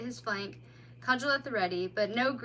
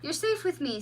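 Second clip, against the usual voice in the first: soothingly; 6 semitones higher than usual. A narrator's reading. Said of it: "said the mole soothingly".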